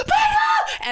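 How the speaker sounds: high shrieked name, pitch leaping way up; retold frantic scream; screaming her name. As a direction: scream the name in panic as she is dragged off. Retelling husband screaming wife's name.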